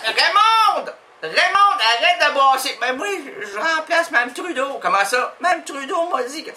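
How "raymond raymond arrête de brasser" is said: louder, higher call to Raymond; mock scolding call. Woman scolding Raymond for stirring the sauce.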